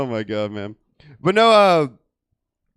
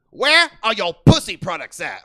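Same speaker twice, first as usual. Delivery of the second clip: tweaker imitation; 5 dB louder than usual. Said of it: "she sounded exactly like a rapper".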